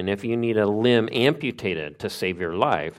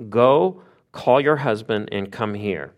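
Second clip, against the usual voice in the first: firm command. Retold or imitated. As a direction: quote a measured order, punching the opening. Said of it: "he gives her this command".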